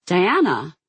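sharp startled yelp of alarm. Acted. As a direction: cry out her name in fright. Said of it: "Alia yelped".

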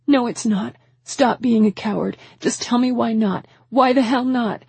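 angry demand. A narrator's reading. Woman calling him a coward, demanding. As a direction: push him hard for an answer. Heated quarrel, demanding an answer.

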